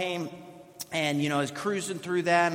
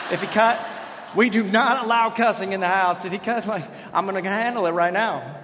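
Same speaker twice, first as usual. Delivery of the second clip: mock outrage; 4 dB louder than usual. Mock dad outrage over cussing.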